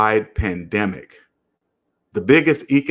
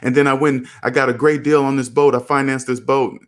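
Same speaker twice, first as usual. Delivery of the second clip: higher, carefree friend bragging; voicing friend; 5 semitones higher than usual. Friend explaining his new boat deal, carefree and higher. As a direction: play the proud friend, pitched up. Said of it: "He's like".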